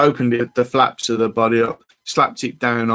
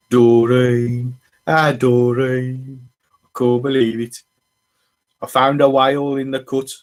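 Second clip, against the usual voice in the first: put-on a lightly done Black Country accent, drawn out; mock a Black Country local, badly; a hint of a Black Country accent calling Doreen; slower than usual. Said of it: "that's an appalling accent".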